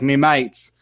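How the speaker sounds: lightly mimicked British slang; put-on British accent. Shown as a demonstration. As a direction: say it with a touch of mock British. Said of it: "my British taste".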